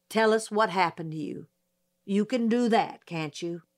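gruffly urging her to speak; gruff coaxing. Acted. Judge pressing the witness, mildly gruff. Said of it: "he growled".

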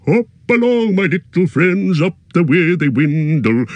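high, loud call from far ahead; loud halloo. Acted. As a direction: call back to them over a distance. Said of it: "in a loud halloo".

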